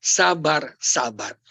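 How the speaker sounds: low, soft, self-calming repetition; calming breath. Shown as a demonstration. Preacher coaching husbands to breathe, calming demonstration. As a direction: let each word settle on an exhale. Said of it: "tarik nafas bilang".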